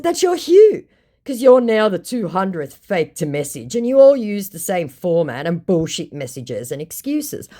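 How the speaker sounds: scornful callout. Retold or imitated. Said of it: "I said".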